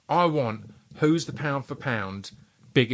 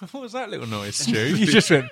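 laughing; 6 semitones higher, 4 dB louder than usual. Real, not acted. Laughing at friend's noise.

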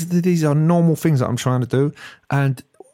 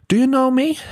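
mock hard man; 13 semitones higher than usual.

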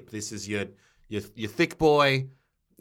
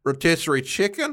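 American accent; 5 semitones higher than usual. Shown as a demonstration. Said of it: "Could you just say it in an American accent?".

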